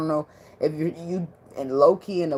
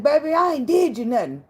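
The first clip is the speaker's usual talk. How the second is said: put-on sweet-talking Louisiana accent, pitched up; 11 semitones higher, 5 dB louder than usual. A Louisiana boyfriend soothing his angry girlfriend, Louisiana accent. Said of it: "Attitude gone off the ac-, accent".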